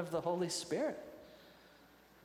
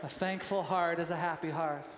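laughing quote. Retold or imitated. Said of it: "Junior Asparagus said this".

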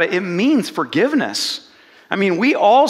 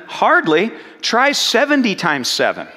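mild incredulous reply; 3 semitones higher than usual. Retold or imitated. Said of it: "Jesus replies".

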